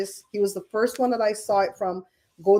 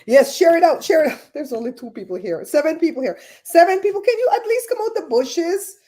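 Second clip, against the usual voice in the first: loud, higher rallying call; calling out to viewers; 7 semitones higher, 5 dB louder than usual. Real, not acted. Host urging few lurking viewers to speak up, loudly.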